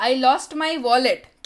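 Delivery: slow and clear, word by word; slow model sentence. Shown as a demonstration. Teacher reads the English line slowly for Hindi students. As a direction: spell it out slowly for learners. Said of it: "teacher repeats the model sentence".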